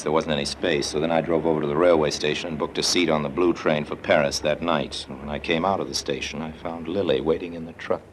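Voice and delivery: low, even storyteller voice; noir narration. A narrator's reading. Harry recounts his day to the listener in noir narration. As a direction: tell it like a tired detective. Hardboiled first-person narration.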